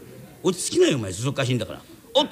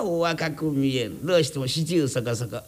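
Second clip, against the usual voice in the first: flattering demo. Shown as a demonstration. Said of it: "あら、あなたは五十".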